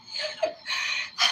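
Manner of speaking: high, breath-only laugh. Real, not acted. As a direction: let out a soft high laugh. Laughs while telling stories.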